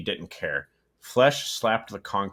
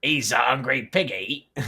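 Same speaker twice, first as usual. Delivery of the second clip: put-on accidental British accent; 6 semitones higher, 4 dB louder than usual. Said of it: "It became fucking British".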